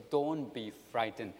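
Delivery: slow, mild reassurance; gently slow it down to comfort; reassuring. Acted. Joseph comforting his trembling brothers, slow reassurance. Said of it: "comfort, assurance".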